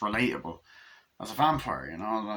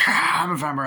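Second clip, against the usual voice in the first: mock reveal; 6 semitones higher, 6 dB louder than usual. Dramatic reveal line.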